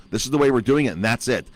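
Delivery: mock the mayor brushing her off; imitating the mayor. Restaurant owner mimics the mayor's flat refusal, mock curt.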